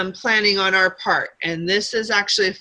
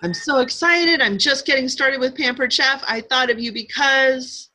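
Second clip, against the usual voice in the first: upbeat sample pitch; 4 semitones higher than usual. Shown as a demonstration. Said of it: "somebody who's got their own business".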